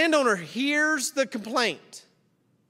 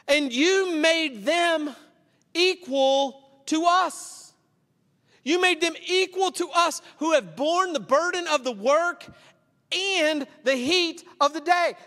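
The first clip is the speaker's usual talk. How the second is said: indignant protest; 4 semitones higher than usual. Acted. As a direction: stretch out the complaint, a touch higher. Workers protest to the landowner.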